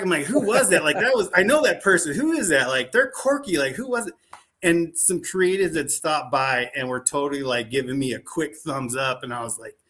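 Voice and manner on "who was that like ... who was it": high-pitched, excited puzzlement; reenacted astonishment, voice jumping up; baffled reaction. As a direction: retell it as a lively, baffled "who was that?". Acts out puzzled reaction to visitor.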